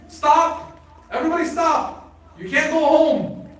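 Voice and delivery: high, loud acted command to a crowd; urgent mock crowd-stopping shout; calling out. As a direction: halt a whole crowd with your call. Acts out halting the pilgrims' caravan.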